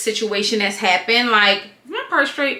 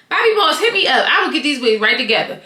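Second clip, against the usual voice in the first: calling out; 3 semitones higher than usual. Real, not acted. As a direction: shout a cheeky invitation to the brand. Calling out to a brand.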